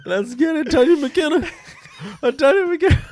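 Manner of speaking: high, loud, laughing shout of the name; laughing name call. Pretend. Mocking the wrong name to his cohost, high and laughing.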